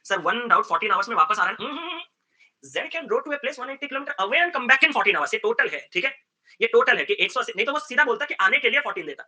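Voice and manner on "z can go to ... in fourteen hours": very slow, deliberate reading of the question; reading the problem slowly to students; slow read-aloud. Acted. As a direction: spell the question out word by word.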